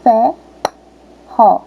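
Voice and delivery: "fé, ró" as two detached syllables; separação silábica. Shown as a demonstration. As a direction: leave a long gap between "fé" and "ró". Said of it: "falar a palavra". ("fé, ró" com pausa entre as sílabas)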